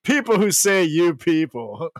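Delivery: mock rant, cracking up; mock angry ranter. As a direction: ham up the angry old guy. Mocking angry man, laughing.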